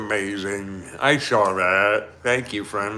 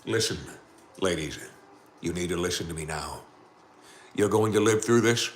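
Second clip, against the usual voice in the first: calm captain; 3 dB quieter than usual. Acted. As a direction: talk them down calmly like a captain. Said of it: "in the most calm voice".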